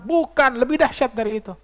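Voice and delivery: high-pitched mock wail; imitated tearful protest. Weeping mother rejecting the sheikh's guess, imitated wail. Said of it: "Ini ibu datang menangis".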